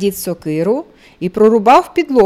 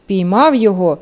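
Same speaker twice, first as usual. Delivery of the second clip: ordinary delivery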